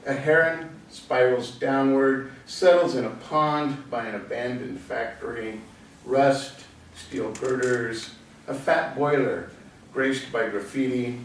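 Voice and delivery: measured recitation, phrase by phrase; poem recited to an audience; poetry reading. Acted. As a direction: read the verse out, pausing after each image. Reads another poet's poem.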